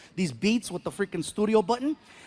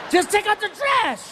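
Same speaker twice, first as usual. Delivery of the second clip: exasperated high demand; 11 semitones higher, 3 dB louder than usual. Retold or imitated. Exasperated dad to son.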